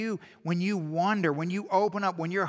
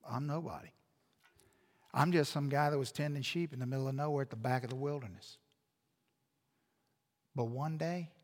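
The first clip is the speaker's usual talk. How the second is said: much lower and softer, an unassuming shepherd; humble Moses; 7 semitones lower, 9 dB quieter than usual. Retold or imitated. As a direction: let the old shepherd speak small and quiet. Moses answers the wanderers.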